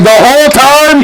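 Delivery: high, drawn-out mock disbelief; high-voiced incredulous question. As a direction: pitch it way up and stretch it, incredulous. Retold incredulous reply to accusation.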